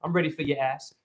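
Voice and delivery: lightly seductive mock romance; romantic voice. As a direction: croon it like a would-be lover. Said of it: "I'm gonna use my romantic voice".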